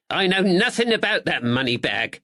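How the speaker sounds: high nervous little man; anxious weaselly shopkeeper; nervous draper voice. Acted. Thatcher denies.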